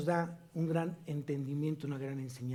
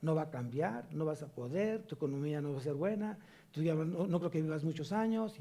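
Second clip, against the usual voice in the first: softer, lower, mock gloomy voice of doubt; discouraging voice; 4 semitones lower, 5 dB quieter than usual. Preacher imitating the devil's voices of doubt, softer and gloomy. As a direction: play the whispering voice that tears you down. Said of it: "voces diferentes a la voz de Dios".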